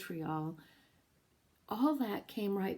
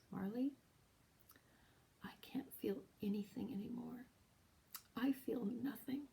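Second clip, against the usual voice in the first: soft, breathy whisper of a numb man; hushed despair; 5 semitones higher, 6 dB quieter than usual. Retold or imitated. Husband whispering to his wife in the car, hollow and hushed. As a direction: barely voice it, emptied out. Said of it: "he grips the steering wheel and he says".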